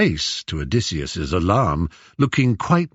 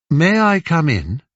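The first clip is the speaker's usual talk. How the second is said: tag; 8 semitones higher, 4 dB louder than usual. Acted. Visitor asks to enter the room.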